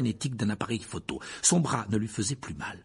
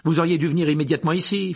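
loud, fast, higher scolding; fuming; 7 semitones higher, 8 dB louder, faster than usual. A narrator's reading. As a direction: scold him hotly. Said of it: "fulmina-t-elle".

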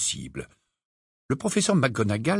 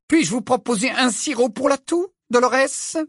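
clipped dry offer; dry, curt; 11 semitones higher than usual. A narrator's reading. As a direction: say it drily, no warmth. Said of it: "dit sèchement".

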